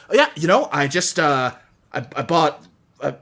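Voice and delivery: a hint of a giddy gambler, laughing; lightly voiced gambler. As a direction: gush about the win a bit.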